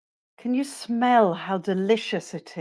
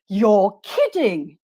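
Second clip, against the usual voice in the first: "kidding" stretched, pitched up then falling; slow, drawn-out "You're kidding" with a big falling tune on "kidding"; exaggerated model intonation; 3 dB louder, slower than usual. Shown as a demonstration. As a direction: model "kidding" slowly for students to copy. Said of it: "listen to my intonation".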